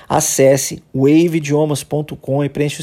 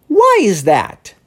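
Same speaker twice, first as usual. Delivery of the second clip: slow surprised question; 5 semitones higher, much slower than usual. Shown as a demonstration. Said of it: "meio surpreso".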